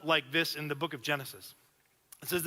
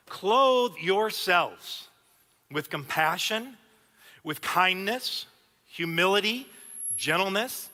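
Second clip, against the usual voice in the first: slow, weighty reading of the verse; scripture reading; 4 dB louder, slower than usual. Acted. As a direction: read each virtue slowly and deliberately. Reads scripture slowly.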